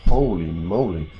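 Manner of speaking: surprised. Real, not acted. Entering the tiny capsule room.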